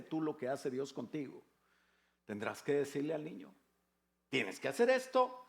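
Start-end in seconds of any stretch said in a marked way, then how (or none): 4.3-5.4 firm, higher parental order; stern parent. Retold or imitated. Parent telling the child what to do, firm and raised. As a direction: lay down the rule to the child.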